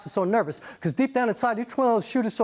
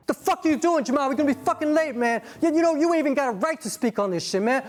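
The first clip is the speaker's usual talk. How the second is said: angry friend; 4 semitones higher than usual. Acted. Friend quarrels with Jamal.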